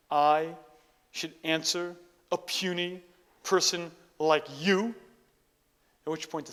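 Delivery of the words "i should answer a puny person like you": scornful Zen master. Retold or imitated. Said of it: "looks him up and down and says".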